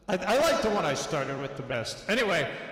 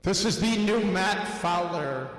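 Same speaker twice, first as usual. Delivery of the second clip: cave echo effect. Real, not acted. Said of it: "Cave underwater".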